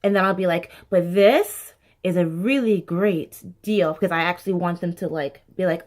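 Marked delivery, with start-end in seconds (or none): 0.9-3.9 slowed-down emphasis. Shown as a demonstration. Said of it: "sometimes I'll speed through one or two of them".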